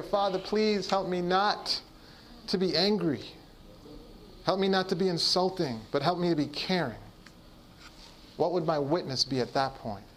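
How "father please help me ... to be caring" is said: ordinary talk, nothing marked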